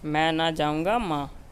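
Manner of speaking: slow mnemonic phrase. Shown as a demonstration. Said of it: "Bahrain से बनता है हमारा".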